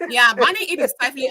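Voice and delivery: chuckling through the repeated phrase; laughing. Real, not acted. Amused, echoing a friend's fancy phrase and laughing. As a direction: say it while laughing at the wording.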